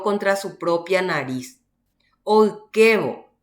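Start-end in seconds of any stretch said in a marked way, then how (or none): 2.2-3.3 Oikevo spelled out slowly and louder, each syllable clear; teacher models Oikevo slowly and loudly; slow example word. Shown as a demonstration. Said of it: "por ejemplo".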